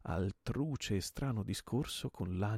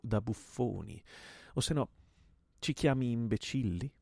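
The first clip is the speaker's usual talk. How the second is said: raised, loud, mounting rhetorical question; indignant accusation; 5 semitones higher, 4 dB louder than usual. Acted. Gunman to host about their buffoonish rivalries, indignant. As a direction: hurl the charge back at him in outrage.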